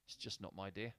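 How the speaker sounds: soft, dejected muttered thought; quiet inner thought. Retold or imitated. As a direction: voice the player's gloomy thought under your breath. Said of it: "Usher's thinking".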